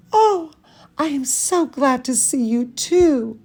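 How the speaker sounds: high "Oh" then a glad reply; excited greeting. Acted. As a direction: greet the teacher with a bright little squeal. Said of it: "she said to her teacher".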